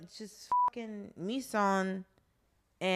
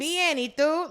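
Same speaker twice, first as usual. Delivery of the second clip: high, loud textbook reply; language-class recital; 9 semitones higher, 7 dB louder, slower than usual. Acted. Showing the stock reply everyone learns, high mock recital. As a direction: answer like a beginner in Spanish class.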